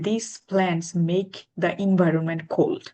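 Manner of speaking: very slow, careful demo sentence; teacher spelling out the correct sentence slowly; model sentence. Shown as a demonstration. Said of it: "correct sentence হবে এটা".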